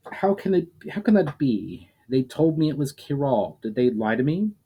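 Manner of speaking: shaken elf. Acted. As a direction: let the elf's shock rise into the question.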